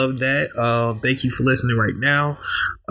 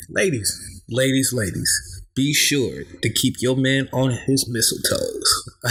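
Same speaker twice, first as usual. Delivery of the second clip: slow, smooth radio host delivery; slower than usual. Acted. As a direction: drawl it like a late-night radio DJ. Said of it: "I sound like a radio guy".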